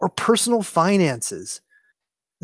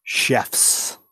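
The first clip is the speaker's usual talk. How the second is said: whispered; 5 semitones lower than usual. Real, not acted. Guest answering a quiz option, whispering. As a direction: whisper Chefs, breathy and toneless. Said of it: "I like how you say that".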